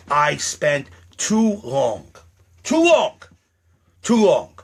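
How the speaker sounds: rising cry on too long; frustrated plea; anguished outburst. Acted. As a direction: let it burst out. Emotional outburst about years wasted.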